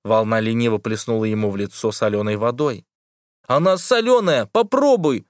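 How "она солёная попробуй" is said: put-on high excited boy's shout. A narrator's reading. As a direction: call out over the waves. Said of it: "закричал он". (восторженный крик)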